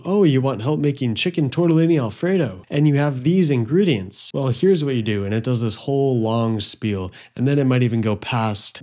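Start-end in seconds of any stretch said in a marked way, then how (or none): 0.0-5.2 high, chipper assistant voice; chirpy AI assistant. Retold or imitated. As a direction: imitate an overeager chatbot. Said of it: "it starts saying the question back to you".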